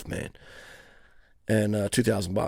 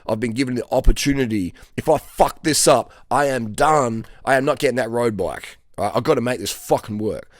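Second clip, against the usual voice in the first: fired-up inner voice; 2 semitones higher, 4 dB louder than usual. Retold or imitated. Worker on his last chance pumping himself up, urgent and louder. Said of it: "sitting there thinking".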